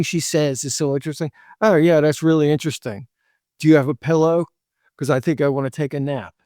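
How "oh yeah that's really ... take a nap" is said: deadpan tease. Shown as a demonstration. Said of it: "say something like that".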